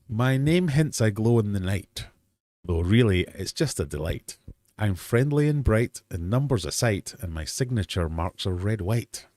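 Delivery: rhyming riddle read out with lifted line openings; punchy, lilting verse delivery; poem reading. Acted. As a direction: recite a quiz riddle in verse.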